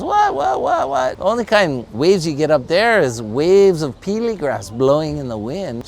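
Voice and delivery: very high disbelieving what-what-what; mock the idea of mountain surf; incredulous scoff. Beach surfer ridiculing her, high and incredulous.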